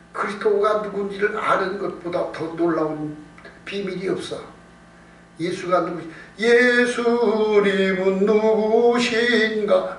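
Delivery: ordinary talk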